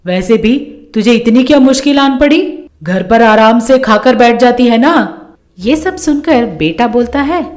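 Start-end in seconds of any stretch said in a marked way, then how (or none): 0.1-4.9 scolding mother-in-law. Acted. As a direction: tear into the daughter-in-law. (गुस्से में डाँटती सास)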